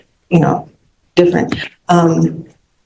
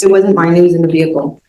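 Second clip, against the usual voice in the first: projected a bit more, still conversational; speaking up. Real, not acted. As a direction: repeat it so the judge can hear. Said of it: "Could you speak up, please".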